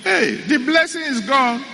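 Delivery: put-on dismayed old father. Father's dismayed outcry retold.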